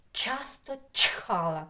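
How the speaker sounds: slow, with crisp Ч in ЧАСТО ЧХАЛА; emphasised Ч sounds. Shown as a demonstration. Teacher reciting a sound rhyme, slow heavy Ч. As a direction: punch every Ч in ЧАСТО ЧХАЛА. Tongue twister stressing the sound Ч.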